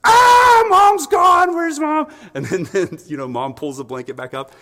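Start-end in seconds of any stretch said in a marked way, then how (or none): 0.0-2.1 very high, loud mock wail; hammed-up baby screaming for mom; panicked baby. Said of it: "the baby's like".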